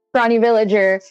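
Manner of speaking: ordinary talk, nothing marked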